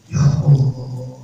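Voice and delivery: drawn-out, awed "Ya Allah"; astonished. Acted. Halimah sees the baby's radiant smile, astonished. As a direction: stretch it slowly in amazement. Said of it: "Kaget Sayyidah Halimah".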